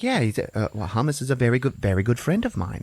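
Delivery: lightly voiced, hurried explanation; a hint of a fussy character; Bagel. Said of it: "And he's like".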